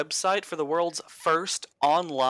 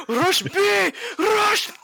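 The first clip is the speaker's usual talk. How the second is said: much higher, louder mock Russian gamer yell; Russian gamer accent; 5 dB louder, much slower than usual. Imitating Russian CS:GO players, a high screamed Russian accent. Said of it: "Now that's a proper Russian accent".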